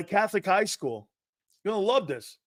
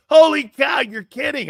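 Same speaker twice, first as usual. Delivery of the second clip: much higher and louder on holy cow; surprised exclaim; 9 semitones higher, 8 dB louder than usual. Retold or imitated. Coach reacting to the black shoes joke, surprised exclamation. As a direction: burst out in delighted disbelief.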